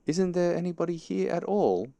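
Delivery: high, sustained questioning call. A narrator's reading. Pooh asking into the hole, calling out. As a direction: call it high into a hollow space.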